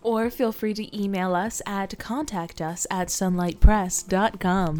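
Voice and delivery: slow, smooth radio announcer voice. Acted. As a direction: read it like a radio host. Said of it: "you put on your radio voice whenever you do that".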